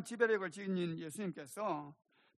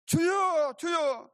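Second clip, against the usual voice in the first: loud, high desperate call; crying out to the Lord; 10 semitones higher, 8 dB louder, much slower than usual. Retold or imitated. Disciples waking Jesus in the storm, crying out. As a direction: call out urgently for rescue. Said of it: "이렇게 부르면서".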